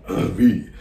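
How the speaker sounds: put-on slow, drawn-out theatrical old-world greeting; in-character stage voice, measured and deliberate; Salieri. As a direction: intone the Italian greeting slowly, pausing between phrases. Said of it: "I'm finding the voice".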